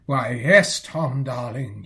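slow, mock-sweet wifely reply; imitating Aunt Dahlia. Nephew voicing his aunt's reply to Tom, slow and mock-sweet. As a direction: draw out Tom darling sweetly. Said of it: "you will reply".

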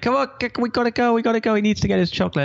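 high-pitched frazzled mum, giving in; exasperated mother. Retold or imitated. Mother caving to her chanting son, high frazzled voice. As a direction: mimic a mother at the end of her rope. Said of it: "And she's like".

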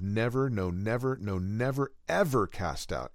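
Never pressed hard on each repeat, ever cast out falling to rest; emphatic repetition. Shown as a demonstration. Preacher showing the emphatic Greek form, each never stressed. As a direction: hammer every never like a promise that cannot break. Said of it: "has an emphatic form that could be said".

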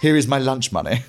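a hint of a posh pupil, laughing through it; lightly voiced posh schoolboy greeting bullies; mock-genteel posh boy, laughing. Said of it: "I'd metamorphose".

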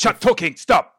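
high, very loud lizard order; shouted creature command; angry lizardfolk character. Acted. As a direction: silence them as a fed-up creature. Lizard guide silencing the party.

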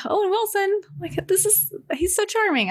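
high, gushing fangirl voice; super excited. Retold or imitated. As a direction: gush about him with delight. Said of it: "I got super excited".

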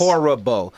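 "horrible" stretched to HOR-RUH-BO for emphasis; emphatic HORRIBLE. Real, not acted. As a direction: hammer each syllable of "horrible". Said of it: "Let me say that again".

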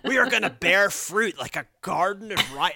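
laid-back stoner dude. Pretend. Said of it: "the stoner voice is".

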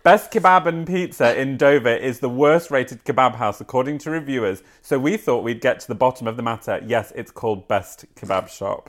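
reading a news article aloud, lightly amused. Acted. Presenter reading a kebab story to her co-host, lightly amused. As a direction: read the story out like a presenter, suppressing giggles.

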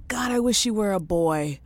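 whispered, half-ashamed wish; guilty whisper. Retold or imitated. Whispering her guilty thought about the daughter. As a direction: breathe it like a secret. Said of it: "I'm like".

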